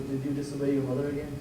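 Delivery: softly, a quick teasing murmur in the ear; a playful hushed aside to the donkey; mock whisper. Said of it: "he whispers in the ear".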